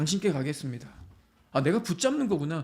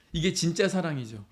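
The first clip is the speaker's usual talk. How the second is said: ordinary delivery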